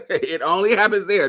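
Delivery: laughing through the words. Real, not acted. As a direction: say it with a real laugh. Repeats line while laughing.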